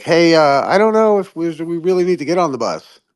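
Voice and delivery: lightly voiced unsure, high; mock timid objection; hesitant doubter. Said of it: "Flat earth is like".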